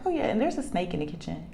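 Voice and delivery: quick, offhand afterthought; imitating a daughter who mentions it casually; calm daughter. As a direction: toss it out unbothered. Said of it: "she's so calm".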